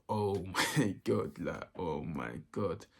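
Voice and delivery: slow, sinking disbelief; drawn-out dismay. Retold or imitated. Teacher asks whose phone it is, drawn-out dismay. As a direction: stretch it out in mock horror.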